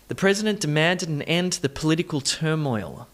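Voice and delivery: bouncing rhythm, "political" reduced to puh-LIT-ical; stress rhythm. Shown as a demonstration. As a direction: stress PRES, MAN, END, LIT, TUR in "president demanded an end to the political turmoil". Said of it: "Practice saying that with that rhythm".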